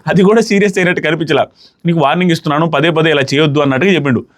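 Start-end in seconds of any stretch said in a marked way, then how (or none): 1.9-3.6 lower, calm, polite "నీకు warning ఇస్తున్నాను"; respectful warning. Shown as a demonstration. Older housemate calmly cautioning Prithvi, lower and polite. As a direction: say the warning gently, like a respectful elder.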